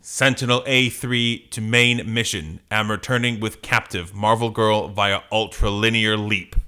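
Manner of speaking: even mechanical radio report; robot voice. Acted. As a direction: report to base like a machine. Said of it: "Are you gonna do a robot voice?".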